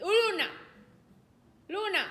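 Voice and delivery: loud, high shout of a name; calling out. Real, not acted. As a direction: call the dog off sharply, loud and high. Calling a misbehaving dog by name.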